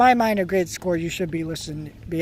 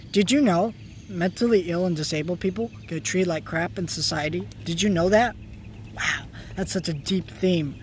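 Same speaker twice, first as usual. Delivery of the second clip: sarcastic. Real, not acted. Mocking shallow theme.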